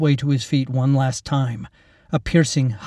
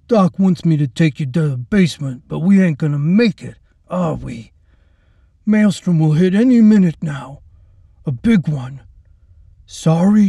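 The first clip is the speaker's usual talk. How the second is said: higher, louder thuggish gloat; brutal orderly, gloating; 4 semitones higher, 4 dB louder than usual. Acted. Orderly taunting the helpless girl before the storm, gloating. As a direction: sneer it out like a bully enjoying himself.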